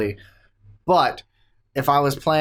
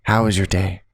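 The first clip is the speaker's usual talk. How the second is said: sweet husband to wife; 5 semitones lower, faster than usual. Acted. Demonstrating for co-host how he would greet his wife, mock sweet-talk. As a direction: play a doting husband asking after the day. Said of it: "go up to my wife and just go in here and go".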